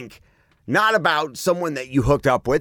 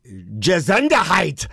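slow, drawn-out mock moan of "Gesundheit"; 4 semitones higher, much slower than usual. Host hams up moaning an awkward name to his cohost, slow. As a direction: stretch the name out like a comic moan. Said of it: "how do you pronounce this".

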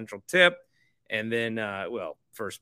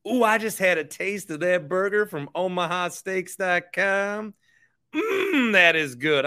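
hammed-up food-ad savoring; savoring delicious food; 7 semitones higher than usual. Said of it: "practice for tomorrow's show".

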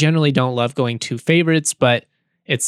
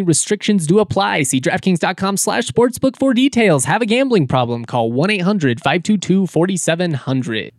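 upbeat, higher sponsor read voice; 3 semitones higher than usual. Acted. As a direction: sell it like a sportsbook ad.

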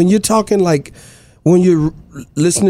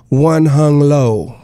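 slow punchline; 4 semitones lower, much slower than usual. Shown as a demonstration. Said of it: "Let's just say if I was Asian".

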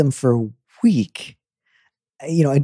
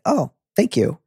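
sarcastic. Retold or imitated. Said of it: "It's like".

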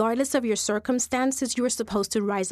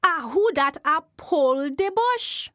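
the eerie call repeated, a little higher; Jumbie voice again; 3 semitones higher than usual. Acted. Jumbie spirit calling out a second time. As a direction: ask again, rising at the end. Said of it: "The voice say again".

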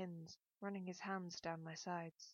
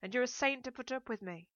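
raised, higher sarcastic praise; open sarcasm; 5 semitones higher, 7 dB louder than usual. A narrator's reading. Daughter retorts to reproachful mother, openly sarcastic. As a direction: lay the sarcasm on plainly. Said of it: "making no attempt to hide my sarcasm".

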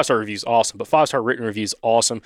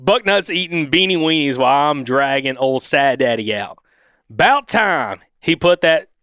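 lightly hammed Southern accent; Southern twang. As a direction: read it in a country Alabama twang. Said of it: "do it with an accent".

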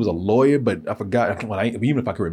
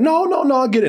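higher, pushy insistent refusal; imitating insistent dudes; 13 semitones higher than usual. Retelling the two dudes refusing his drink, insistent. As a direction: wave off his offer, hammed-up.

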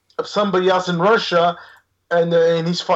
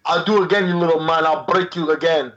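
put-on Irish accent. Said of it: "he was playing Irish".

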